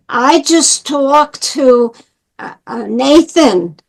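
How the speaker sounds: imitating a heavy New York accent; slow New Yorker impersonation. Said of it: "in his accent".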